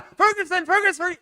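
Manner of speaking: high, loud calling out a name; retold shout. Son yelling to the football star at the parade, loud call. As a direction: yell across the parade at the player. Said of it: "le grita".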